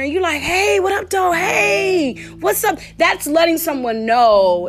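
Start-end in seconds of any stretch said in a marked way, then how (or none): 0.4-2.8 high, singsong street hello; hood greeting. Acted. Walking in the hood greeting people, high friendly hail. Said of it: "it's like walking in the hood somewhere".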